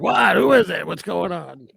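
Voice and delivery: high, loud startled questions, easing off; mock alarm. Businessman to unseen voice in tunnel, mock startled calling. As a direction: imitate a man startled by a voice. Acting startled man hearing a voice.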